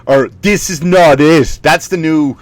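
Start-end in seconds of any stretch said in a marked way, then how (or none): 0.4-1.6 slow, emphatic canned phrase; mock social-media scold. Commenter scolding online, slow mock disapproval. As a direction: drag out the mocked catchphrase. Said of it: "social media line".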